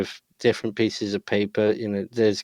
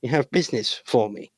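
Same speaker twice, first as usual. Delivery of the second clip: high-pitched nasally voice. Acted. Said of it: "in a high-pitched, nasally voice".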